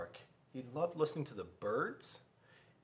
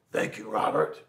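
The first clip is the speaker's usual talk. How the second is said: teacher thanks; 4 semitones lower, 7 dB louder than usual. Acted. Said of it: "Miss Kirby said".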